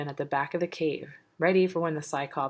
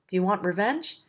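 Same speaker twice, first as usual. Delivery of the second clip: yelled; 4 semitones higher than usual. Acted. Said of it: "they yelled".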